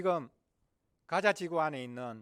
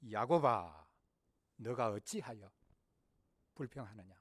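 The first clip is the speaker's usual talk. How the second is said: lower, measured reproachful call; God addressing Jacob; 4 semitones lower than usual. Acted. God asking Jacob why he complains, solemn gentle reproach. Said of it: "하나님께서 말씀하시죠".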